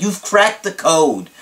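slow, punched-out hype; dramatic client imitation. Client crediting his coach, slow dramatic emphasis. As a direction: draw out each word in mock awe. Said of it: "he says, he's like".

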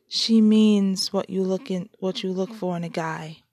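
through gritted teeth. Acted. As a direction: speak with teeth clenched. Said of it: "clarified through gritted teeth".

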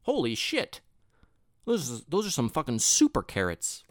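high mock outrage at the price; hammed-up sticker shock. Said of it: "I'm like".

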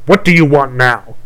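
loud, impatient crone; hag voice. Acted. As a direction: demand it like an irritated witch. Hag confronts the prince.

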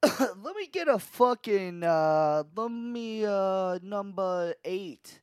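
slow, high hammed Chicago ordering; Chicago accent. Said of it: "Chicago accent".

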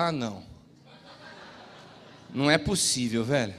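low, laughing groan of disbelief; exasperated disbelief. Retold or imitated. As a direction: sink your voice, amused and stunned. Pastor exasperated at the prophecy.

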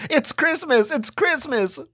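put-on high, thrilled child's shout; excited kid shouting. A narrator's reading. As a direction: squeal it out like a kid on Christmas morning.

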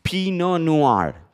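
"Pinot Noir" drawn out slowly as "pino nuar", copying the recording; slow French pronunciation. Shown as a demonstration. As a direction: stretch out "Pinot Noir" syllable by syllable, French style. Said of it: "Se las pongo más lenta".

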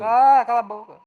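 loud, high shout. Acted. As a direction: yell shut up. Shouting shut up.

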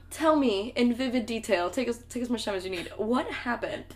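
mock-leisurely, softened questioning; calm questioning. Dumbledore to Harry over tea, exaggeratedly calm. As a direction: ask softly, as if there were no emergency. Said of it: "Dumbledore calmly asks".

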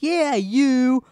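high, loud insistent shout; retold biker yell. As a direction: bark it back at him.

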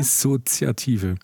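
slow, careful with a dry mouth; working the word out with a dry mouth. Real, not acted. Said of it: "Ich muss mal was trinken".

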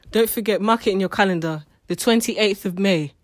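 loud, punchy reminder; emphatic announcement. Real, not acted. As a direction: announce the date firmly so nobody misses it. Announces a date to listeners.

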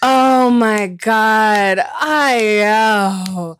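shocked gasp. Real, not acted. Shocked at album mix-up.

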